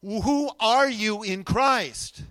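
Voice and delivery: slow, deliberate call for an answer; prompting the congregation. Real, not acted. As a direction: draw out each word of the question. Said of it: "would be a good time to answer".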